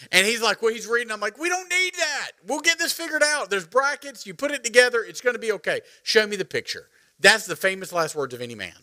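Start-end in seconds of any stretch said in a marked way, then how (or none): 1.4-6.9 much higher, brushing off the instructions; imitating his own overconfident self; cocky self-quote.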